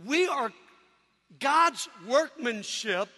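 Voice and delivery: slow, deliberate verse reading; scripture recitation. Acted.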